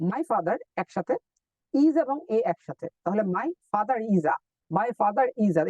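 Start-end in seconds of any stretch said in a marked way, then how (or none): 0.1-0.6 my father said slowly as one linked unit; linked words. Shown as a demonstration. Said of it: "সাউন্ডটা হচ্ছে এরকম". 3.4-5.6 my father is a said as one chunk ending on a; linked phrase. Shown as a demonstration. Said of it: "সাউন্ডটা হচ্ছে এরকম".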